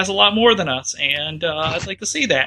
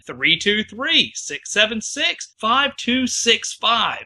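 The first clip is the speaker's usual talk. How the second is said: slow and clear; slower than usual. Shown as a demonstration.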